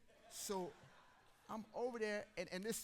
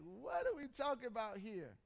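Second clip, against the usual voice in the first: louder, higher, fed-up question; exasperated outburst; 6 semitones higher, 6 dB louder than usual. Retold or imitated. To the swim teacher, loud exasperated complaint. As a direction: throw it out in frustration. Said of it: "I'm like".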